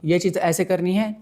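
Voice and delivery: slow, sure statement like an order; firm command. Shown as a demonstration. Demoing to students the leader way to speak, firm and slow. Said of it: "Instead तुम बोलो".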